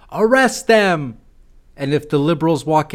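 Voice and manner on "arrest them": high, slow mocking shout; mock scream. Liberals demanding Republicans be arrested, mock shout. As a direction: shout it like an outraged protester. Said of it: "start screaming".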